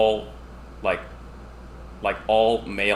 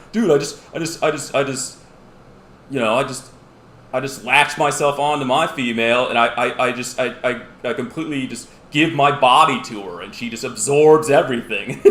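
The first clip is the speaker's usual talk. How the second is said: raised, louder, gushing dude voice; excited dude rant; 3 semitones higher, 7 dB louder than usual. Retold or imitated. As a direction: gush about it, loud and eager. Anglerfish describes mating.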